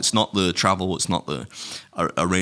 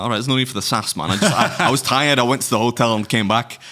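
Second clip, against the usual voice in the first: higher, louder defensive protest; 4 semitones higher, 4 dB louder than usual. Retold or imitated. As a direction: push back, a bit worked up. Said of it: "I'm like".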